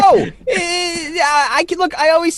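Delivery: high, laughing words. Real, not acted. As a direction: laugh your way through the words. Laughing off a racism accusation.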